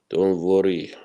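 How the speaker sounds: a hushed reassurance; whispered. Shown as a demonstration. Reassuring chat about the absent friend, in a whisper. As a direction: whisper Don't worry with no voice.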